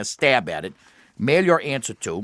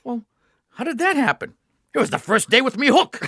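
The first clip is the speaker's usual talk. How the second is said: building to punchline; 10 semitones higher than usual. Retold or imitated. Joke dialogue, rising to punchline.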